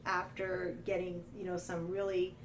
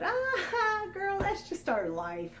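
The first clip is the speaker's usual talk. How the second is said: laughing; 12 semitones higher, slower than usual. Retold or imitated. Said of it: "she just kinda laughs and said".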